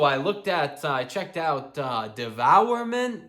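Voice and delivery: halting, with the band name drawn out slowly; struggling to say it. Retold or imitated. Gym guy reports a band he found, struggling to say it. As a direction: feel your way haltingly towards the band name. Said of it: "struggling to say".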